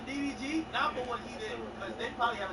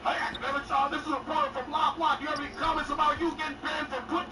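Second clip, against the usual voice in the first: higher, louder mock reporter calling out; retold CNN reporter, higher and louder; pushy reporter; 6 semitones higher, 3 dB louder than usual. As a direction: imitate a reporter pressing for comment. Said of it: "a motherfucker from C N N gonna hit me".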